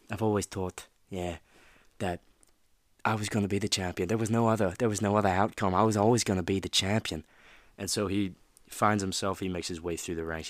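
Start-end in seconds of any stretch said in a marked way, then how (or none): 0.1-7.2 put-on self-assured, louder Irish-accented champion boast. Vlogger quoting Conor McGregor's champion talk, in an Irish accent. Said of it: "that Irish accent, I can't do it well".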